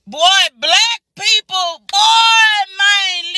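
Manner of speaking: exasperated yell; shout. Real, not acted. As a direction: bark the word out. Ranting at black people.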